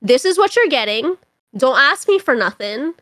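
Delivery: put-on mother's stern West Indian accent, lightly done; a hint of a strict West Indian mom. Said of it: "in her very West Indian accent".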